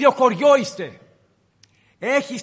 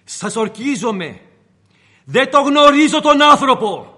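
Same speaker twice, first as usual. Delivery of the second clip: desperate shout of denial, louder; swearing loud denial; 3 semitones higher, 7 dB louder than usual. Acted. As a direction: swear it out with rising panic. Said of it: "ορκιζότανε, αναθεμάτιζε".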